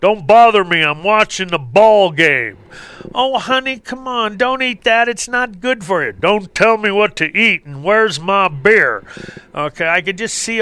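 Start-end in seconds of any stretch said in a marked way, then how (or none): 0.0-2.6 louder, brushing her off; grumpy husband. Retold or imitated. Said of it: "all these guys". 3.1-6.1 higher, mock-sweet nagging; pleading wife. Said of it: "the women will come to you and go". 6.1-9.0 grumpy husband. Retold or imitated. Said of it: "all these guys".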